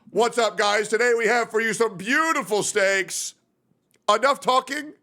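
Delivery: lightly voiced cooking host intro; a hint of Guga's cheery steak greeting; imitating Guga. Streamer mimics Guga Foods opening his video, lightly voiced. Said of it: "where he's like".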